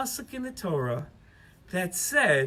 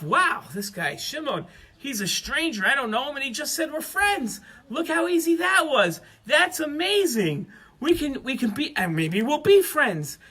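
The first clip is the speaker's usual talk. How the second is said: rising higher with wonder at an easy friendship; a lightly voiced, marvelling Reuven; amazed; 6 semitones higher than usual. Reuven, amazed that a stranger calls him friend, marvelling.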